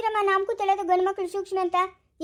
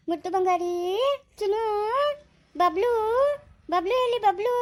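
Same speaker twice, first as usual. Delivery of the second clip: coaxing pet-name calls with rising ends; baby-soothing coo; 4 semitones higher than usual. Acted. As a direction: coo sweetly to settle a crying baby. Cooing to a crying baby. (ಮಗುವನ್ನು ಮುದ್ದಿಸುವ ಧ್ವನಿ)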